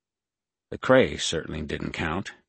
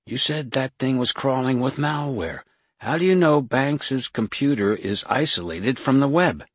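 loud, high-pitched demand; alarmed challenge; 7 semitones higher, 6 dB louder than usual. A narrator's reading. Kate confronting Jason over the laptop, raised alarmed challenge.

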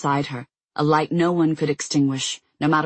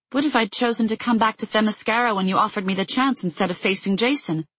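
high, urgent and rising; pressing worried questions; agitated; 5 semitones higher than usual. A narrator's reading. Diana, distraught, confronts the oracle.

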